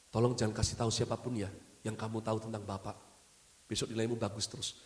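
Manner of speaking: whispering. Acted. Teacher begs the pupil to keep quiet, hushed whisper. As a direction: lean in and hush it like a shared secret. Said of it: "Terus dia berbisik".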